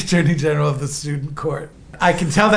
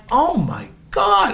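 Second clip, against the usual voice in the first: slow, higher, wowed reaction; drawn-out awe; 4 semitones higher, slower than usual. Retold or imitated. Visitor looking round the speedway, drawn-out awe. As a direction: stretch each word in amazement. Awed by the racetrack.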